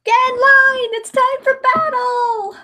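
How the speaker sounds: high, loud "Get in line!" command; villain battle cry. Acted. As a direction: bark the order like a villain.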